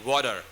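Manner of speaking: "water" with a D-like T; American "water". Shown as a demonstration. Teacher spelling out the lazy version, "water" said with a D. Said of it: "it sounds like a D".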